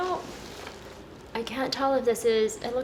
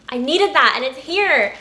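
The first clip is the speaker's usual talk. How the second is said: excited self-quote; 3 semitones higher, 7 dB louder than usual. Retold or imitated. Where I'm like.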